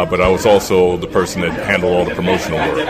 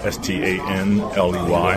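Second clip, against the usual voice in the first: slow letter-by-letter spelling; slower than usual. Real, not acted. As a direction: spell each letter clearly, slowly. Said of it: "last name is spelled".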